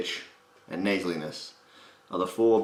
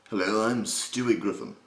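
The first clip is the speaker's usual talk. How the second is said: lightly put-on British accent, little gravel; British character voice with the grain taken out. Shown as a demonstration. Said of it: "If you can do a British accent".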